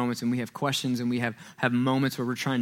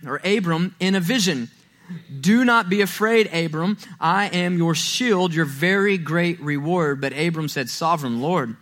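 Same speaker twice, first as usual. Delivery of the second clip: raised, declaiming Bible reading voice; preacher reading Genesis aloud; scripture reading; 2 semitones higher than usual. Acted. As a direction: proclaim the passage to the congregation.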